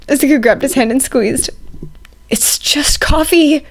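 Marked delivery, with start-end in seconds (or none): 2.3-3.6 slow, breathless whisper; embarrassed whisper. A narrator's reading. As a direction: barely get the words out, mortified. Shoto choking on embarrassment.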